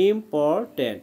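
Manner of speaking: ইম্পর্ট্যান্ট as im, por, tant; broken into syllables. Shown as a demonstration. Teacher repeating the breakdown for the student, syllable by syllable. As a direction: separate the three parts of ইম্পর্ট্যান্ট. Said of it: "এইভাবে ভেঙে ভেঙে".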